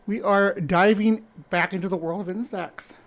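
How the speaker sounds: winded from running; out of breath. Real, not acted. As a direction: talk while catching breath. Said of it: "sorry, I'm out of breath".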